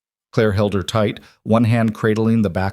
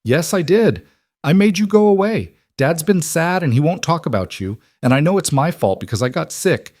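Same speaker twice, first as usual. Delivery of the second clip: put-on distraught little girl; 5 semitones higher than usual. Girl blames herself to the woman, distraught. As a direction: pour out the guilt like an upset child.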